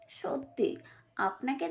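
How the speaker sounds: whispered aside; a sly whispered jab. Acted. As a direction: breathe the word mockingly. Fox mocking aside.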